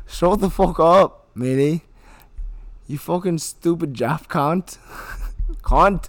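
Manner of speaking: acted tirade, cracking up between insults; acted rage. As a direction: snarl the names at him. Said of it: "begin when you're ready to begin".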